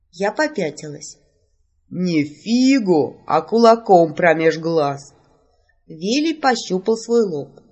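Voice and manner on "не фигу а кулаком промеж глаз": slow, heavy threat getting louder; angry retort. Acted. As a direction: growl the threat, building to the end. Mage angrily threatens heroine. (маг угрожает героине, медленно и всё громче)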